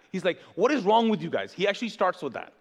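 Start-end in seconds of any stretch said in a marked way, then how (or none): 0.6-1.5 mildly exasperated, louder rebuke; imitating a fed-up apostle; getting mad. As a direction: act out an annoyed scolding, punching it a little. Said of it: "like he is getting mad".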